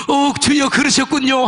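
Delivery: lightly tearful re-enacted cry to God; retold wailing. Weeping man cries out to the Lord, mildly tearful. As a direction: act out being overcome, only mildly. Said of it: "통곡이 일어나서 우는 거야".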